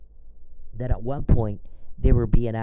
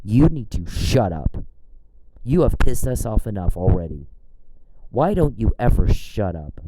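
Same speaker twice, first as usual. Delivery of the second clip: angry rant at Charles. Real, not acted. Telling Charles to get out, furious. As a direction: order him out of your phone. Yelling at stalker directly.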